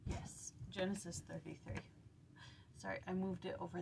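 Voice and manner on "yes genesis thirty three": whisper. Real, not acted. Whispered confirmation.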